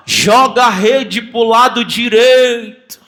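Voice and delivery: slow called-out command; slow shouted order from the shore; Jesus calling out. Retold or imitated. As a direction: call it across the water to the boat. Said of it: "Jesus grita assim".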